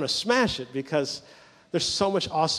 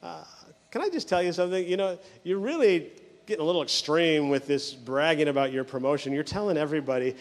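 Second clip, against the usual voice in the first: softer, tactful imitated wife; gentle; 4 dB quieter than usual. Wife gently correcting her bragging husband, gentle and tactful. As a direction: break it to him gently. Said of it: "said to him kinda gently".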